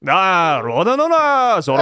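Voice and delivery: joking about the old dub, imitating Mihawk's cartoonish pleading; mock Mihawk dub voice. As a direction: ham up a cheesy Four Kids dub line. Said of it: "it's Mihawk saying".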